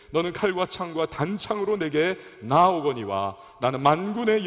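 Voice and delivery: scripture reading. Shown as a demonstration. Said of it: "사십오 절 이하를 보세요".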